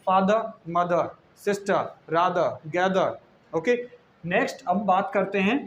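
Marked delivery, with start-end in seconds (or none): 0.1-3.2 slow, फादर मदर ending on a clear uh; final uh sound. Shown as a demonstration. Teacher repeats फादर मदर slowly with ending ah. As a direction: stretch out each word, r silent. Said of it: "ए अनार का sound निकालना है".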